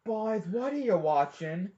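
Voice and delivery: questioning dad. Retold or imitated. Dad walking in on boys watching a video, slow questioning. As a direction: lightly imitate a dad checking on the boys. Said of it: "your dad walked in and said".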